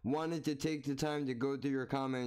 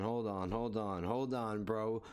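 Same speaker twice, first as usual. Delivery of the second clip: insistent interruption; 5 semitones lower than usual. Real, not acted. Streamer halting the story, sinking lower each time. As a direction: hold on repeated, sinking lower and lower.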